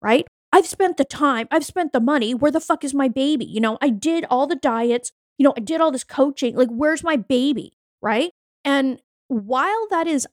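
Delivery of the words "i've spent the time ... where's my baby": higher, indignant imitation; mildly higher mock entitled rant; mock entitled complaint. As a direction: list it off like you're owed a refund. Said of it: "Think about how entitled and fucked up that is".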